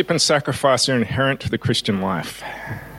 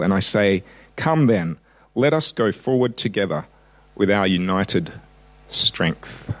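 reading a famous speech. Shown as a demonstration. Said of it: "I'm going to read the words of that speech".

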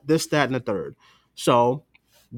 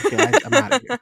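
high, bailing-out voice, much higher; mock exasperated friend; 13 semitones higher, 4 dB louder, much faster than usual. The speaker imitating Anna quitting CW shows, high mock exasperation. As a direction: play the friend throwing up her hands. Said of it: "You're like, "Dwayne, I can't do it".

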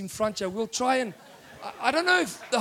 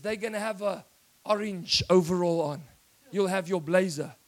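voice of God; 2 semitones lower than usual. Acted. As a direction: speak as the calm Holy Spirit, low and hushed. Preacher voices the Holy Spirit.

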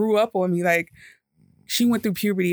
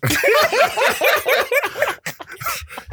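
long, very high mock wail; imitated bawling. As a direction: break into hammed-up sobs. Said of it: "You're crying".

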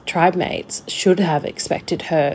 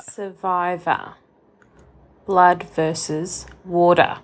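Australian accent; slower than usual. Shown as a demonstration. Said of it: "you should try and drop in".

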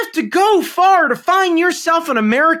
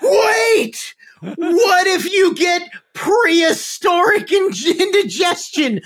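higher-pitched mock alarm, stretched out slowly; alarmed interjection; 4 semitones higher, slower than usual. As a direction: cry out a mock warning to halt everyone. Acting out someone halting the meal.

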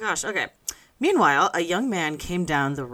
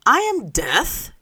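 slow, high, louder Death declaring; grim reaper voice; 7 semitones higher, 5 dB louder, slower than usual. A narrator's reading. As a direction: announce yourself as Death, slowly. Reads Death's line in story.

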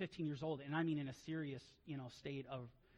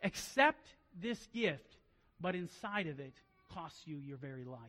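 tempting offer. Acted. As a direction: draw them in with a sly offer. Satan offering the Trojan gift.

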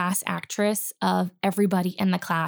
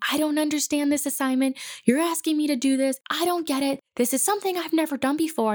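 higher, put-upon complaining with a bit of attitude; toned-down imitation of a frustrated student; mock attitude; 6 semitones higher, faster than usual. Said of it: "say it with a little bit of an attitude".

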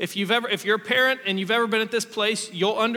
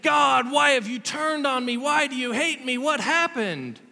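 higher mock lament to God; psalmist's lament; 3 semitones higher than usual. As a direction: voice the psalmist's complaint. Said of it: "the psalmists are saying".

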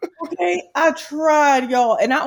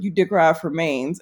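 friend's accusation; 7 semitones lower than usual. Retold or imitated. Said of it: "And he's like".

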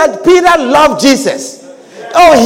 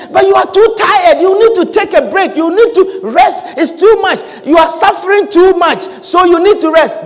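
higher-pitched, insistent urging; mock concerned adviser; 5 semitones higher than usual. Adviser urging a tired church worker to rest, mock insistent concern. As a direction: imitate someone pressing their worry on a friend. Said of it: "The voice that comes to you and say".

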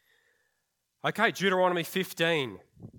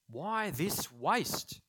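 slow indignant question; 4 semitones higher, much slower than usual. Acted.

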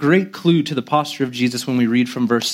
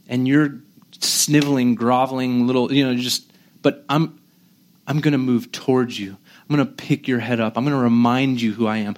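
mildly lowered, steady and confident; soft, compassionate assurance; 3 semitones lower than usual. Acted. Preacher as the humble king lifting up his followers, compassionate assurance. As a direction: reassure them gently, building a little toward the end. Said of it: "more of a soft, strong, confident".

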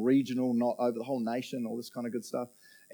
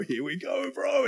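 knowing here we go; 12 semitones higher, slower than usual. Retold or imitated. Seeing friend's nose get pointy.

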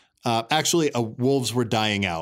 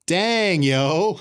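cool dude voice; 6 semitones higher, 4 dB louder than usual. Retold or imitated. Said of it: "Narcissist was like".

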